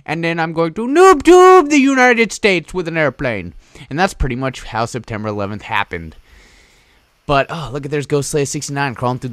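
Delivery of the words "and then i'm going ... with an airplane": high-pitched caricature voice; crazy plotter. Acted. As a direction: announce the plan as a cartoonish plotter. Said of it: "He's like".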